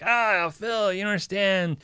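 mock commenter. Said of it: "Floyd Rose junkie always makes comments like".

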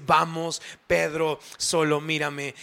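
soft, tender coaxing; loving plea. Acted. Jesus seeking Peter amid his error, lovingly. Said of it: "con una mirada de amor".

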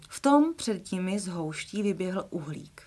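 storybook reading, lively and clear; expressive children's story reading; reading a children's book aloud. Acted. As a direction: read it like a bedtime story.

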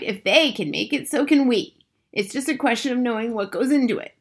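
rally the listener with spirit; eager cry. A narrator's reading. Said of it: "she cried".

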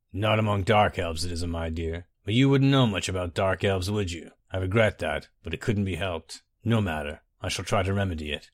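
lightly voiced suave villain, amused; Symmachus.

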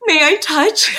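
slow, laughing stammer; excited stutter. Acted. Xie Lian, thrilled by the armory, stutters with a laugh. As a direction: stammer it out in delight. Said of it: "so excited that he starts stuttering".

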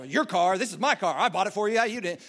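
mildly grumpy acted father; mock parental gruffness; gruff, grumpy dad. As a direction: grumble back like an annoyed dad. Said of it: "he gets all gruff and, like, grumpy".

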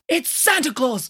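gasped. A narrator's reading. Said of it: "gasped Nanny Piggins".

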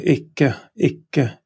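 "ikke" as IK-keh, falling; ikke said slowly. Shown as a demonstration. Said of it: "ikke comes after the verb".

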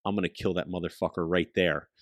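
soft intense vow. Retold or imitated. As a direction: promise the kill, quiet but fierce. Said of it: "I was so intense".

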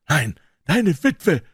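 slow, high, deadly line; cold Carruthers. Acted. Carruthers answers Woodley just before firing, slow and cold. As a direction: drop it slowly before the shot.

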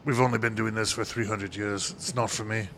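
a hammed-up, lightly done French accent; mock a snooty Frenchman in a weak French accent; bad French accent. Joking as a French winemaker who scoffs at carbonic, in a bad French accent. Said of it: "perhaps the shittiest French accent I've ever".

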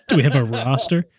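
repeating through a laugh; chuckling while echoing the question. Real, not acted.

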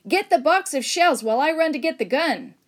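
loud, high, hurried instruction; urgent shouted order. Acted. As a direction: call it out in a rush of urgency. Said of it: "shouted the missionary to his wife".

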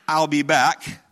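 a light hint of an Austrian accent, imitating Schwarzenegger; Arnold Schwarzenegger voice. Pastor jokingly voices Jesus as Schwarzenegger, a hint of the Austrian accent. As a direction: say it like a casual Schwarzenegger catchphrase with a touch of Austrian accent. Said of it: "in his best Arnold Schwarzenegger voice".

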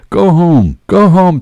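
high, emphatic repeated order; insistent urging. A narrator's reading. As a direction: press him firmly to leave. Stranger urging him home.

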